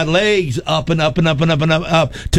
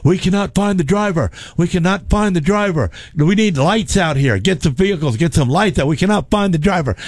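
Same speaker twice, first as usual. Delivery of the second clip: higher-pitched, repetitive radio call; official on radio; 4 semitones higher than usual. Retold or imitated. Safety official radioing about a missing driver, imitated radio call. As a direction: imitate an urgent radio dispatcher. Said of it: "I can hear the radio".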